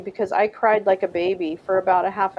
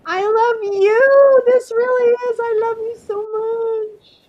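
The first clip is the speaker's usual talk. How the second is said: higher, slow, tearful I love you; choked-up crying; 12 semitones higher, 6 dB louder, slower than usual. Real, not acted. Tearfully thanking Marie, higher, slow and crying. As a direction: voice cracking with tears as she thanks them. Emotional thanks, voice breaking high.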